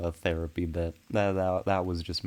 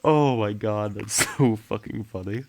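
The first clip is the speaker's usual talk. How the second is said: laughing hard; 6 dB louder than usual. Real, not acted. Cracking up at chat.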